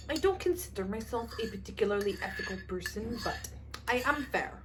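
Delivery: hushed attempt at an Italian accent; lightly voiced Italian-accented line, quoting the film; a half-hearted Italian accent, Gucci heiress style; Lady Gaga Italian accent. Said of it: "I can't do an accent".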